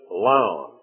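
lion as one syllable, "lahn"; Southern pronunciation. Shown as a demonstration. Preacher announcing his own pronunciation, Southern one-syllable lion. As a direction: say "Lion" without any Y sound. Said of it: "I'm going to pronounce this".

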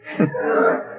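imitated little boy's sobbing; mock sob. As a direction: blubber wordlessly like a crying child. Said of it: "He's crying".

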